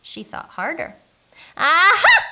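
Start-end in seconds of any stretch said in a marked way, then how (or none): 1.6-2.2 high, loud eureka cry; sudden triumphant "aha" yell; excited shout. A narrator's reading. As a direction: burst out as if you just got it. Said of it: "she shouted with a jump".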